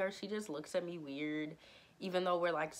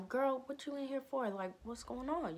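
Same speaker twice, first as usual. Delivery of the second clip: surprised question; 8 semitones higher than usual. Retold or imitated. Asking friend in office.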